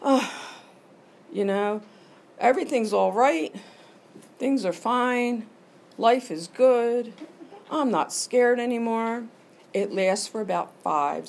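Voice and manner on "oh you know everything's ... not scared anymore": slow, soothing and lightly raised; 'Oh, you know, everything's all right' drawn out slow and soothing; self-soothing. Retold or imitated. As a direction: talk yourself down like a comfort. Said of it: "and I say".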